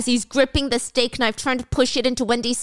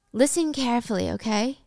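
calmly; 3 dB quieter than usual. Acted. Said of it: "Wendy says calmly".

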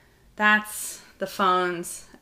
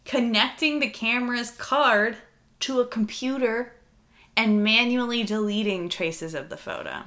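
spooky voiceover; 4 semitones higher than usual. Acted. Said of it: "back to my spooky voiceover voice".

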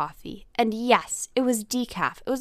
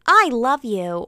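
high, loud toy-bear voice; talking toy bear; 5 semitones higher, 9 dB louder, slower than usual. Retold or imitated. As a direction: pipe up like a squeezed talking teddy. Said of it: "it, like, says something crazy".

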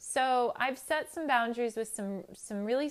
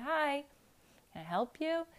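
higher, polite doorstep greeting; kindly, politely; 7 semitones higher than usual. Acted. Answering the door to the same woman, kindly and politely. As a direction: greet the caller with gentle courtesy. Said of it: "kindly, politely".

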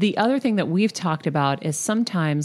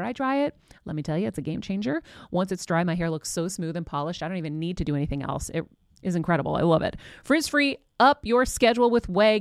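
ad read; 2 semitones higher than usual. Acted. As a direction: read the ad copy like a host. Sponsor ad read.

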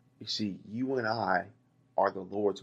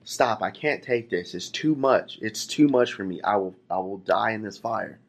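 desperate pleading. Retold or imitated. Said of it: "I was screaming out to the master".

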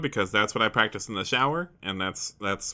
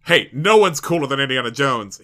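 louder, bruised-ego protest; defensive; 7 dB louder than usual. Acted. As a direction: bristle like a hero whose pride is hurt. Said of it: "his ego very bruised and very defensively".

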